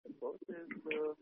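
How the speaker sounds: barely audible. Real, not acted. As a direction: voice almost lost, very faint. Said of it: "your voice is very low".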